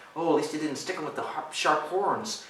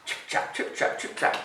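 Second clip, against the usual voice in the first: whispery chip-chap hooves; hoofbeat imitation. Reader mimicking goat hooves crossing the bridge, whispery. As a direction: tap out hoofsteps in voiceless syllables.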